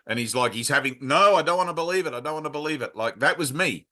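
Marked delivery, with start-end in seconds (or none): 1.0-3.0 acted-out panicky refusal, pitched up and hurried; mock protest, refusing to accept it; frantic denial. Retelling Neo refusing Morpheus's explanation, frantic denial. Acting out Neo's denial in The Matrix.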